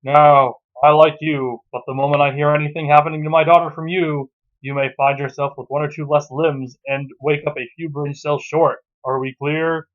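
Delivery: put-on loom over the boy as the girlfriend's father; stern father. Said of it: "clears throat".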